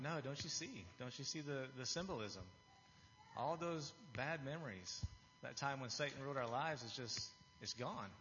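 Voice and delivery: retold excitement, voice pitched a little up; mildly excited pleading, stretching the key phrase. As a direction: explain it eagerly, as if recalling the thrill. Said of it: "I was so excited".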